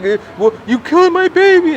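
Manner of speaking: high, accusing put-on voice; imitating upset parent. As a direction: blame him in a shrill mock parent voice. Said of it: "they'd be like".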